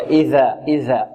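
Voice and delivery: low, deliberate إذا with interdental dh; careful dhal articulation. Shown as a demonstration. Teacher demonstrating dhal for pupils, careful articulation. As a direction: say إذا with the tongue tip at the upper front teeth. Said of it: "من طرف اللسان".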